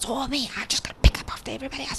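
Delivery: acted mumbling under breath. Retelling complaining to yourself while others chill on the couch: retold mumbling under breath. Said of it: "just like mumbling under my breath".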